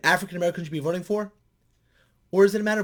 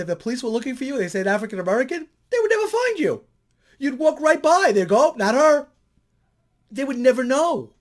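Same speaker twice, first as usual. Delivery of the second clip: much higher and louder, building; animated retelling; 9 semitones higher, 7 dB louder than usual. Retold or imitated. Telling the student police would miss her, animated and high. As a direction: play it up like a punchline. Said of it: "I made a statement like that".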